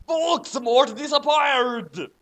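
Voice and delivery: loud, high, slow proclamation; booming dramatic reading of the news; dramatic announcement. Acted. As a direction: declare it like a stage reveal. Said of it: "so we'll try again".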